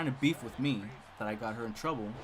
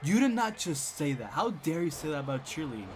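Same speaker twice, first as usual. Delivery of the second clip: mock upset; 3 dB louder than usual. Cheer girls defend cheerleading to him, mock outraged. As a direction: mimic scandalized cheerleaders. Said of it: "really, really upset. They're like".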